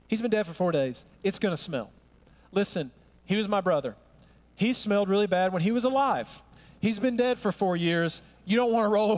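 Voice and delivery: mock-practical sister warning him off; pointing out the obvious. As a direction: state the awkward truth for laughs. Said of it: "Martha's pointing out the obvious".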